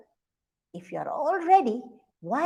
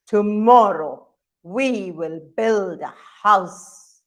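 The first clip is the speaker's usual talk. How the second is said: father monkey; 3 semitones lower, 5 dB louder, slower than usual. Acted. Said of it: "father monkeys always speak".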